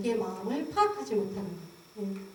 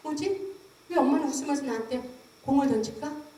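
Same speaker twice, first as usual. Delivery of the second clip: put-on baby's confused thought. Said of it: "애기는 멍해져요".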